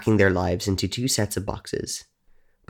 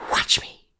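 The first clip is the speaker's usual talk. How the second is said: breathy whispered challenge. A narrator's reading. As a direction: whisper it like a tease. Ghost girl's playful challenge.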